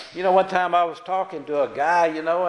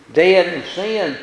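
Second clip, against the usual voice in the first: "Dead" slow and leaned on, louder; stress on dead; 6 dB louder, slower than usual. Shown as a demonstration. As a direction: hit the word "dead" hard and slow. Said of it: "you have to put a lot of emphasis on that word dead".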